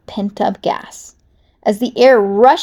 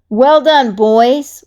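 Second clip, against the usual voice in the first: proud boss; 3 semitones higher, 6 dB louder, much slower than usual. Acted. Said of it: "Wolf told his crew".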